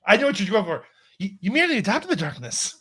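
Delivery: hammed-up villain lines in an actor's puzzled voice; Mark Wahlberg as Bane. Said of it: "Mark Wahlberg as Bane".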